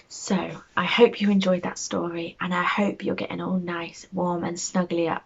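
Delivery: soft goodnight. Real, not acted. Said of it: "bedtime goodnight".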